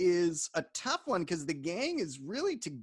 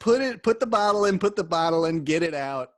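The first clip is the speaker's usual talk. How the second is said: loud, urgent instructions; mock bark; 7 dB louder than usual. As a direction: shout the orders like Frank. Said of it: "He says".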